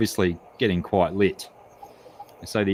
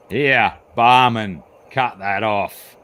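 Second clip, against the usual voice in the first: Australian in joke; 3 semitones higher, 6 dB louder, slower than usual. Acted. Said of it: "and says".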